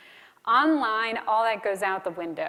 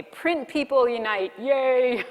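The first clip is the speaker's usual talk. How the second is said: loud, high little cheer; excited cheer; 3 semitones higher, 5 dB louder, slower than usual. Real, not acted. Print people cheer.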